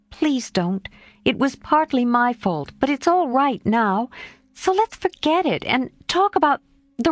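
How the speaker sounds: put-on a girl bravely pleading. Jo pleading with Mr Lawrence.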